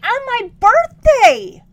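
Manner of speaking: slow, high, loud anguished cry; outraged wail. Retold or imitated. A kid wails at her dad over the birthday. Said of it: "I was that angry".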